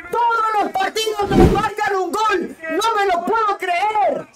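high, exasperated outburst; exasperated shout. Real, not acted. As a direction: vent at conceding again. Fan angry after conceding goal.

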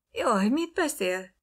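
ijedt, remegő felkiáltás; rémülten, magasan felkiáltva; frightened cry. A narrator's reading. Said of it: "kiáltott fel ő is, megremegve". (ijedt nő felkiált)

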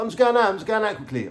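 high-pitched mock girlfriend reply; imitated girlfriend. Acts out girlfriend hurrying out.

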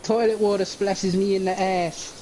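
hoger, zeurend nagedaan broertje; mock brother. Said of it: "He's like doing that".

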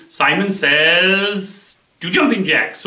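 slow, drawn-out Simon says command; lightly voiced game caller. Shown as a demonstration. Explaining the game, lightly voicing Simon's command. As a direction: call the command like the game leader. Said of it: "So they say".

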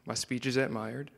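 breathy whispered poem line. Acted. Poet whispers one line of his poem to the room.

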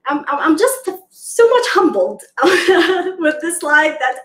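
giggling through the words; real laughing. Real, not acted. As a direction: laugh while confessing being humbled. Host laughing while humbled.

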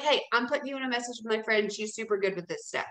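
quick, matter-of-fact announcement; just tell them, don't ask; confident statement. Shown as a demonstration. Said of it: "Just be like".

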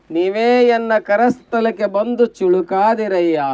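slow, measured sacred recitation; verse recitation. Acted. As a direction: recite the holy verse, stretching the phrases.

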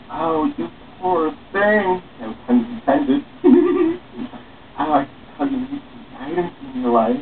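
mock pity. Fake pity toward passerby.

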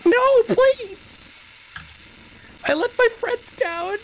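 high, whiny fake apology; mock apology voice. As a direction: play a sobbing game developer. Mocking the game's apology.

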